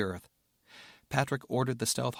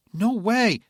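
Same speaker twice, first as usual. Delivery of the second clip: shouted refusal; 11 semitones higher, 7 dB louder than usual. Acted. Rebecca refusing.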